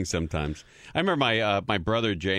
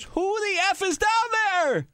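high, mock-furious mother yelling down the stairs; angry mom yelling. Mom at the top of the stairs yells down at her son, high mock fury. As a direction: play the mom catching a kid out of bed.

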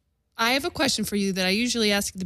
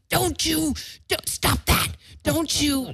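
a hint of an annoyed father, pitched up; mock protest; 9 semitones higher, slower than usual. Father pointing at the photographer, mock protest pitched up. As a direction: fend off the camera in mock alarm.

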